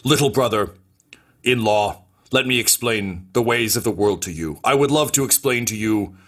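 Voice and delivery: lightly voiced pompous romantic; a touch of theatrical condescension; pontificating would-be brother-in-law. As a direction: lecture grandly on the ways of the world. Phalox lectures on love.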